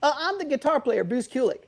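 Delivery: put-on New York accent. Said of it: "his accent was just getting the best of me".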